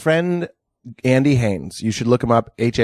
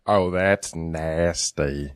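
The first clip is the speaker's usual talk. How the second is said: laughing; much slower than usual. Real, not acted. Friend cracks up at the crude joke, laughing.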